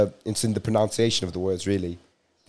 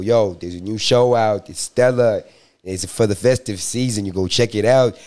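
put-on American accent. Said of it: "Does that sound like I did an American accent".

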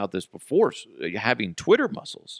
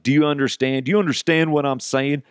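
condescending hillbilly; 4 semitones higher than usual. Retold or imitated. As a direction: spell it out like she's a child. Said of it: "he's just totally talking down to her".

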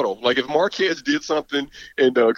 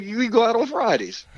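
imitating Prime; 8 semitones higher than usual. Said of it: "he was like".

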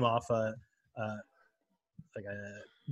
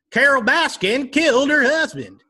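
put-on Joe Exotic accent; 12 semitones higher, 5 dB louder than usual. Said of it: "start talking like".

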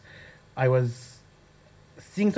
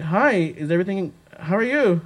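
wary hi; 2 semitones higher than usual. Retold or imitated. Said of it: "Complete change of tone".

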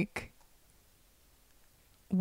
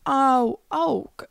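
flustered surprise; 5 semitones higher, slower than usual. Retold or imitated. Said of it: "I was just like".

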